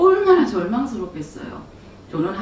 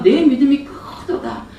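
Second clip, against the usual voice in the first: slow exalted proclamation; 5 semitones higher, 5 dB louder than usual. Retold or imitated. Repeated higher.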